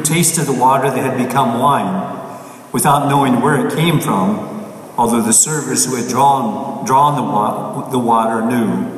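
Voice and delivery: measured, solemn scripture reading; gospel reading. Acted. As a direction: proclaim it from the pulpit. Priest reads the Gospel aloud.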